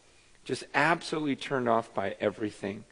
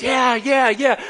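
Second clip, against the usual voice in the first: team cheering; 9 semitones higher, 7 dB louder, slower than usual. Retold or imitated. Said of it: "And everyone goes".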